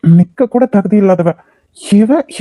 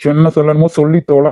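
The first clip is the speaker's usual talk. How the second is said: low threat; 4 semitones lower than usual. Acted. Groom threatens the bride.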